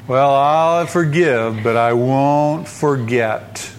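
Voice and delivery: slow, drawn-out mock concession; half-hearted forgiveness, stretched; grudging forgiveness. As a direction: drag the words out reluctantly. Mimicking insincere, grudging forgiveness.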